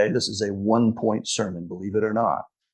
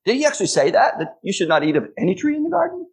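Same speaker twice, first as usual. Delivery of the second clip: mocking question; 8 semitones higher, faster than usual. Preacher mocks the devil's question.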